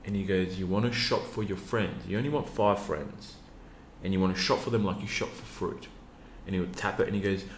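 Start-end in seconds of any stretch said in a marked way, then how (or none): 0.6-5.9 put-on light Macedonian accent, grandfather; grandfatherly Macedonian accent. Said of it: "you know, Macedonian accent".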